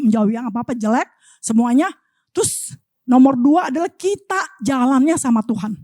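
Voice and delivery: ordinary talk, nothing marked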